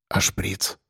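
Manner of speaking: hushed question; quietly. A narrator's reading. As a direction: keep it under your breath. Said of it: "спросил я так же тихо".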